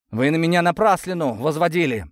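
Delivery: high, defiant accusation. A narrator's reading. Accused young worker answers his interrogator, defiant. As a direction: throw it back in challenge. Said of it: "с вызовом посмотрел парень".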